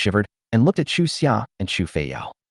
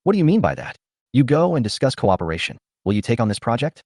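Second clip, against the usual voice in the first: cold questioning. Acted. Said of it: "questioned him in a cold voice".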